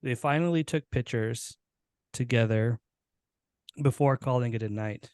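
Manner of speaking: reading his own flash fiction aloud, steady and gentle; story narration. Acted. Podcast host reads his short story to co-hosts, storytelling voice. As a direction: tell the ending of the story to friends, unhurried.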